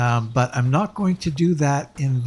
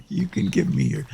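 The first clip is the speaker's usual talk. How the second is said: voice cracking; 6 semitones higher than usual. Real, not acted. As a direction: voice giving out mid-phrase. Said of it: "I'm losing my voice there".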